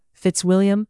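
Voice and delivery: high, sighed-out name; sighing. Acted. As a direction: breathe his name on a sigh. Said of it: "Elizabeth sighed".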